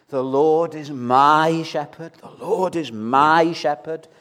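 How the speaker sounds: MY drawn out and pushed in "The Lord is MY shepherd"; stress on MY. Retold or imitated. Discouraged teacher reciting her psalm to the doctor, stress on MY. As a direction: lean slowly on the word MY. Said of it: "you're putting the emphasis in the wrong place".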